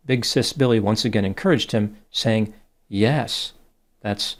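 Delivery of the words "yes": YES with a long stretched vowel; drawn-out yes. A narrator's reading. Narrator reads the chatbot's encouraging reply, a drawn-out "Yes". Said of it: "three A's and an S".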